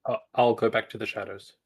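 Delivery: put-on African accent voice; west african accent. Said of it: "M J just speaking in an African accent".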